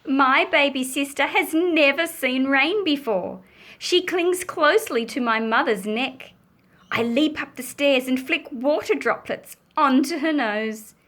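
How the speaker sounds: lively picture-book reading; story narration. A narrator's reading. Baby sister meets rain for first time, animated storytelling. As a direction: tell it with delight to young listeners.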